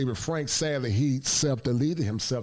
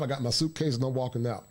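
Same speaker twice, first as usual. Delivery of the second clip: ordinary talk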